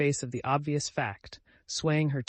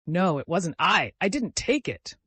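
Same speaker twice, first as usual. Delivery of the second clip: wailing; 3 semitones higher, 4 dB louder than usual. Acted. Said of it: "she cried with a heartrending wail".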